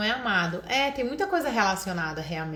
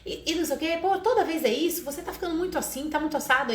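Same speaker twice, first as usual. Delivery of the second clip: higher, exasperated nagging; mock a parent listing old faults, a bit fast; 6 semitones higher than usual. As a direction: parent nagging child about repeated mistakes, exasperated. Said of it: "não é pra falar".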